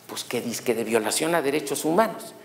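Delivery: low, soft cop reply; lightly voiced officer, dropped low and quiet; imitated police partner. Accused policeman tells his partner the charge, lightly voiced low cop. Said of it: "estaban dos policías judiciales".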